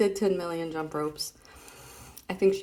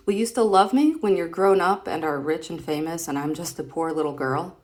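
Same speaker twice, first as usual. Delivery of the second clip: louder reading of a plea; girl's line; 5 dB louder than usual. Acted. Reading a comic to her son, a little girl's plea. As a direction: read it like a hopeful little girl.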